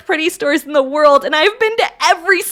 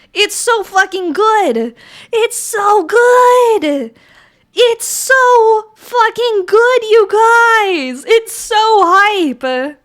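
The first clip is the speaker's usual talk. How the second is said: slow, louder gushing, stretched out; gushing hype; 6 semitones higher, 4 dB louder, much slower than usual. Real, not acted. To chat about Solo Leveling, slow loud gush. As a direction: rave about the show with real fire.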